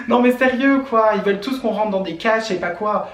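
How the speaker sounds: high, loud, exasperated rant; indignant outburst. Real, not acted. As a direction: vent the frustration.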